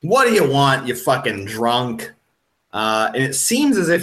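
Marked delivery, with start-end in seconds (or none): 0.0-2.1 mildly gruff challenge to a stranger; irritated pub owner. Acted. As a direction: brush off a drunk coming toward you. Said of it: "and he's like".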